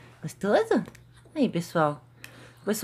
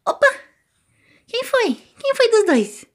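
much higher teasing sing-song; 13 semitones higher, 4 dB louder, slower than usual. Real, not acted. Mother teasing her twins about a noise, high baby talk. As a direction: tease the babies who made the noise.

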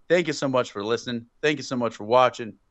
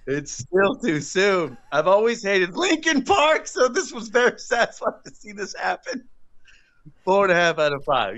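mocking voice; 8 semitones higher than usual. Reads cohost's mocking review.

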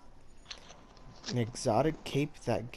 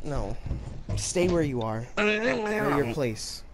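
haughty taunt; 3 semitones higher, much slower than usual. Pretend. Taunting friend, slow high.

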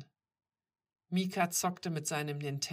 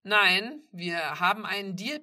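loud, insistent objection; emphatic, demanding voice; firm refusal; 4 semitones higher, 11 dB louder than usual. A narrator's reading. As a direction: refuse forcefully, louder on the first word. Stranger refuses at the door.

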